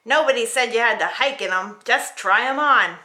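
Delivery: a touch of a stern queen; impatient queen. Acted. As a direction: wave off the complaint. Queen Zelda speaking.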